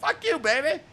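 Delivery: high, loud rock-singer shout; imitating the singer. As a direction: belt it like the band's frontman.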